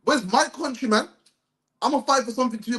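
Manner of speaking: high-pitched, demanding protest; acted indignation. Preacher voicing what his people should say, acted indignant demand. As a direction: act out staking an angry claim. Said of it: "You're supposed to say".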